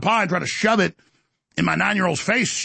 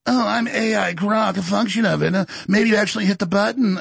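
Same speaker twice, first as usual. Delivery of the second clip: mock AI voice; 4 semitones higher than usual. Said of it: "AI explains itself".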